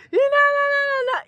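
high loud wordless yelling; mock street shouting. Street commotion near mom's house, loud mock yelling. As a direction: shout nonsense like a crowd.

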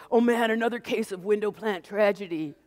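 a hint of a kid friend's quip; lightly voiced friend. Girl mourning the dying window plant, lightly voiced. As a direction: toss it off as a mock lament. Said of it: "Marla says".

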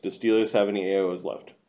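ordinary talk

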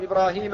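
إبراهيم said ibraahiim with a long i; the common form إبراهيم; alif replaced by ya. Shown as a demonstration. Teacher giving the best-known form, إبراهيم with a long i. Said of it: "أو يبدل ياء فيقال".

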